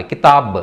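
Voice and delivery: కితాబ్ with long taa and bare final b; vowelless final consonant. Shown as a demonstration. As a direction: end కితాబ్ on a short released బ్. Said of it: "పొల్లి ఇవ్వాలన్నమాట దానికి". (కితాబ్ చివర పొల్లు బకారం)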